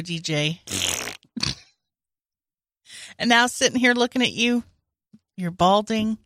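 mock tender confession. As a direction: confess love in fake earnest. Fake romantic confession.

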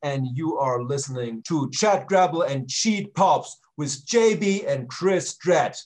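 hammed-up German villain threat; movie villain german accent. Intro threat in put-on voice.

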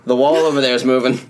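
light Australian accent, casually delivered. Shown as a demonstration. Showing friends how the clue was hidden, Australian accent. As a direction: repeat the line in an Australian accent. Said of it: "Say it with the Australian accent".

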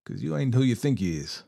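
mocking cowboy taunt. A narrator's reading. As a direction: taunt him with a smirk. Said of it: "and mocked".

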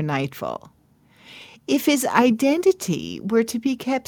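storyteller voice with musing hums; measured storytelling read with thoughtful pauses; story narration. A narrator's reading. Reads a Hasidic tale aloud.

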